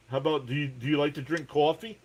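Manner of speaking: light New York accent landing on "coffee" as "cawfee". Shown as a demonstration. Showing viewers the teased accent, playful New York question. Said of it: "I got teased about coffee".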